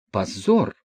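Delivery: usual speaking voice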